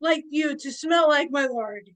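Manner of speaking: high, loud, theatrical courtly hail; hammed-up faire vendor voice; grand merchant patter. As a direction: proclaim it to a lord, settling down at the end. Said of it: "And I'm like".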